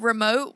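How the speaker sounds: REMOTE as "REE-mote", first syllable stressed; mispronounced REMOTE. Shown as a demonstration. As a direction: hit a long "ree" at the front of remote. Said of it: "was pronounced remote".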